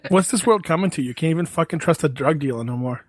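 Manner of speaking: mock Boston accent, grumbling. Complaining about drug dealers, put-on Boston accent. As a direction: play an aggrieved Boston local. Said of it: "so good in a Boston accent".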